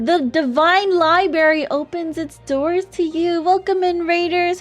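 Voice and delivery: bright, high welcome; cute anime streamer. Real, not acted. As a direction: greet the raiders sweetly. Streamer greeting raiders.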